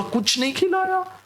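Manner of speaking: put-on high child voice wailing in a tantrum; boy lying on the mall floor wailing at mom; tantrum yell. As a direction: cry it out like a kid kicking on the floor. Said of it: "बोला".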